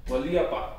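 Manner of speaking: "Gualiapa" with a separate stressed EE in the middle; correct original pronunciation. Shown as a demonstration. Teacher showing the correct way for guayaba, original pronunciation. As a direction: say "Gualiapa" as the old form of guayaba. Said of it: "the correct way".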